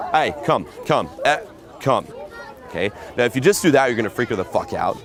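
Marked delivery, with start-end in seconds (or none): 0.1-2.1 short, firm one-word orders; commanding. Shown as a demonstration. Pickup coach showing how to move her, commanding. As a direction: order her over with no question in it. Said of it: "it's commanding".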